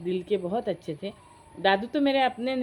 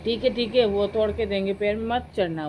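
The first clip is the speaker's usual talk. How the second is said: louder, lightly acted admonishment; retold firm warning; 5 dB louder than usual. Grandmother warns children not to climb the tree, retold firm warning. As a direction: warn the children off, as a retelling.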